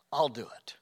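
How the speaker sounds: whispered repeat; whispered voice of God. Acted. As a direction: drop to a whisper on the promise. God's promise, whispered.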